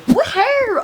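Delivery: real excited whoop; cheer. Real, not acted. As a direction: celebrate out loud. Cheering before leaving for gym.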